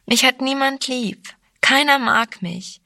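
acted girlish whining complaint; wailing. A narrator's reading. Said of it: "jammerte sie".

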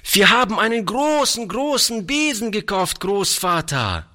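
put-on high, quick, excited child voice; delighted little girl. A narrator's reading. Little girl telling grandfather of the new broom, delighted. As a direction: pipe up like an overjoyed small child. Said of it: "rief die Kleine voll Entzücken".

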